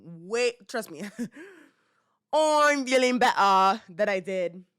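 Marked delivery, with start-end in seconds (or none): 2.3-4.6 slow, drawn-out mock British accent. Vlogger joking about getting over an illness, mock British accent. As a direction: slip into a playful, louder British accent. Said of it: "me doing the British accent there".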